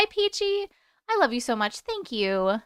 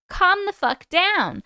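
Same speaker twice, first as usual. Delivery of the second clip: half-joking louder scold; calm the fuck down, half-laughing; mock scolding; 6 semitones higher, 4 dB louder, slower than usual. Real, not acted. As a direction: tell her off playfully. Scolding Lisa playfully.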